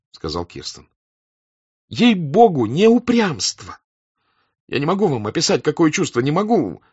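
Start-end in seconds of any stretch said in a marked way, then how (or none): 1.9-6.8 high, earnest protest; imploring voice, pitched up; desperate pleading. A narrator's reading. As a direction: plead that they have it wrong. Young officer pleads against accusation.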